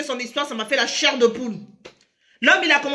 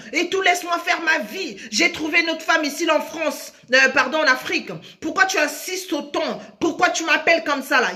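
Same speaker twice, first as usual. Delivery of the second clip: mari qui insulte, imité; 3 semitones higher than usual. Retold or imitated. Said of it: "son mari l'insulte".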